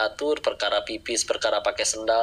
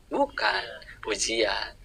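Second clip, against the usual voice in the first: whispered dramatic answer; a secret-sharing whisper to the congregation; 4 dB quieter, much slower than usual. Real, not acted. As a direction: drop to a breathy hush on the word. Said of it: "dramatic whispered answer".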